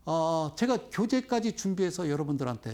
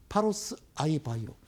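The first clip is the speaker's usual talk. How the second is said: ordinary delivery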